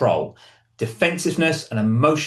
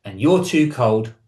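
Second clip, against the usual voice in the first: slow, somewhat louder mock retort; mild shout back; 4 dB louder, slower than usual. B retorting to A's blame, mild mock shout. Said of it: "And B would shout back".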